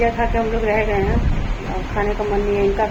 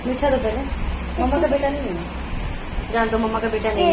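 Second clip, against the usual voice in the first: mock sulk; 5 semitones higher than usual. Mother pretends to sulk at son.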